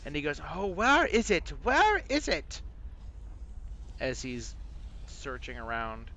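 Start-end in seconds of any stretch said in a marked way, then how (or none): 0.5-2.6 high, fretful British voice; British accent. Acted. Game master voices a searching skull, high British accent. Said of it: "a British accent".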